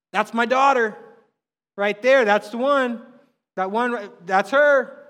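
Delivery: proud dad calling out about his daughter; proud father. Acted. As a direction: show her off to everyone.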